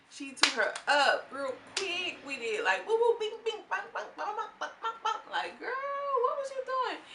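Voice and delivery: high, loud, laughing fight sounds; squealing play-by-play of a catfight; excited fight recap. Real, not acted. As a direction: bang out the punches with glee.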